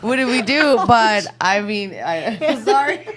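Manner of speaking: laughing. Real, not acted. Laughing at own money trouble.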